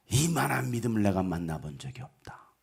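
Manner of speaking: low, soft admiration; hushed praise. Acted. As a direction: marvel quietly, almost to himself. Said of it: "이 칭찬이 여러분을 향하여". (낮고 조용히 감탄하며 칭찬)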